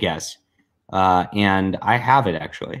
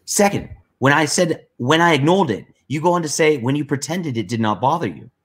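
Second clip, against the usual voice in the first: Liam; 4 semitones higher than usual. Acted. Co-host resuming Liam's long rebuttal, lightly mimicked voice. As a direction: read it as a light impression of the writer. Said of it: "I'll try to read it in, uh, in, in Liam voice".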